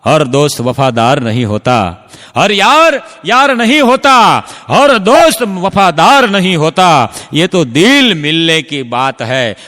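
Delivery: slow, loud declaimed couplet; poem recital. Acted. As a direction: recite it slowly like a shayari. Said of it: "એટલે કીધું છે કવિએ". (કવિની શાયરી, ધીમે ભારપૂર્વક પઠન)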